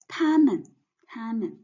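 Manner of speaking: 他们 with a strong 他 and light 们; neutral-tone 们 in 他们; stress on first syllable. Shown as a demonstration. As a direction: hit 他 in 他们, let 们 fall away. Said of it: "we want to put the stress on the first word".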